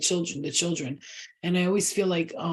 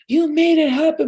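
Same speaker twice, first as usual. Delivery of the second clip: high shrill accusation; 9 semitones higher, 7 dB louder than usual. Retold or imitated. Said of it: "she was like".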